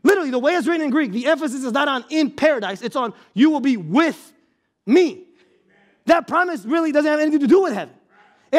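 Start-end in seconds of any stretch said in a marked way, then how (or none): 3.3-5.2 "with" stressed, then a pause before "me". Shown as a demonstration. Preacher showing the Greek emphasis, stress on "with". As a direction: lean on "with" and hold off "me". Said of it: "The emphasis is on the word with".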